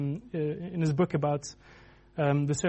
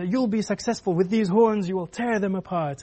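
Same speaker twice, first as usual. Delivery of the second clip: confident, rousing promise of victory; eager prophesying; 2 semitones higher than usual. Acted. Prophet assuring the king of victory, eager. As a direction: proclaim it with mock zeal.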